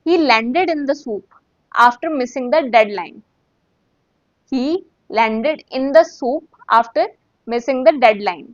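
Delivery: very slow, clear drill; slow practice read. Shown as a demonstration. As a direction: stretch it out so students can follow. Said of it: "उसको practice करते हैं".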